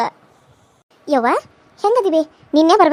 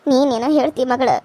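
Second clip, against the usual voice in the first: crying; 3 semitones lower than usual. Acted. Mother tearful over absent daughter.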